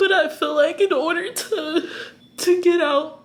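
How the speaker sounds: crying while talking. Talking to the camera about tough decisions ahead, crying while talking. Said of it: "I feel so cringy crying on camera".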